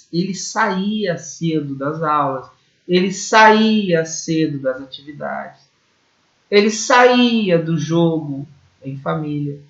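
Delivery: saía with the I stressed and held; strong I. Shown as a demonstration. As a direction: lean on the middle vowel: sa-ÍÍ-a. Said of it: "o som do I". (saía com o I forte e alongado)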